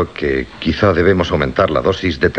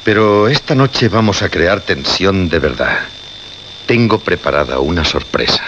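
strange, unsettling. Acted. Victor to his radio team, promising a surprise, faintly menacing. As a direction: let it sound oddly dangerous. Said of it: "Lo dijo de una forma extraña, casi inquietante, peligrosa incluso".

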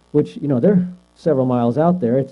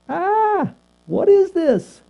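mock fright; 14 semitones higher, much slower than usual. Disciples frightened by the ghost.

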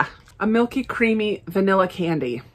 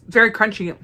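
whisper. Real, not acted. Tasting crunchy chip, unvoiced.

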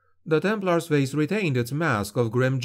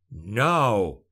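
sharp snarled command. A narrator's reading. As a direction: spit the order at him. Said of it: "he snarled".

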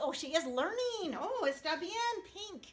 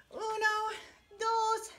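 raised, lively stretching count; cheerful count; 6 semitones higher, much slower than usual. Acted. Teacher leading a morning stretch in an upbeat voice. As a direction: call out the numbers to wake the class.

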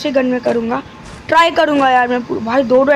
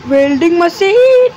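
excited call-out; 4 semitones higher, 5 dB louder, slower than usual. Real, not acted. Spots the welding machine.

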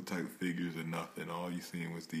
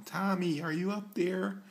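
high, loud call upward; calling up to window; 13 semitones higher, 8 dB louder than usual. Pretend. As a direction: shout up to a window. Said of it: "No, that's corny".

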